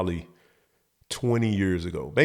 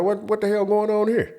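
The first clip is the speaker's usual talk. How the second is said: stepdad barking; 11 semitones higher than usual. Retold or imitated. Stepfather bursting in.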